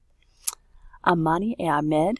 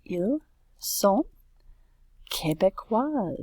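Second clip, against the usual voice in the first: murmured while writing; 3 semitones higher, slower than usual. Real, not acted. Teacher writes answer, murmuring.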